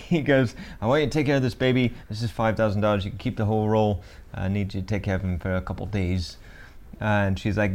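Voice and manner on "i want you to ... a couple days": put-on wobbly accent drifting Scottish; quick attempt at an accent, sliding into Scottish; loosely put-on accent with a Scottish lilt; accidental Scottish-tinged accent. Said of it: "You just sounded Scottish a little bit".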